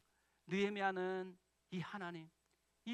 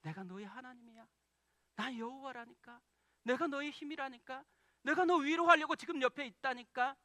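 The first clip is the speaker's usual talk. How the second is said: God's whisper building; 5 semitones higher, 7 dB louder than usual. Pretend. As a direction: begin gently and swell into passionate assurance. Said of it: "우리에게 속삭이세요".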